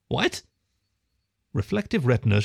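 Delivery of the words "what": put-on thin, reedy squirrel boy; small nervous voice, higher. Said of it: "Roger's voice was slim and reedy".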